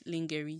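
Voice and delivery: lingerie as LING-geh-ree; wrong pronunciation of lingerie. Shown as a demonstration. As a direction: say lingerie with a hard g, as spelt. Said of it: "I've been pronouncing it".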